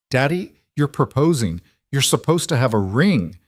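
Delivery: put-on high excited little girl; excited child. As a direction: gush like a six-year-old.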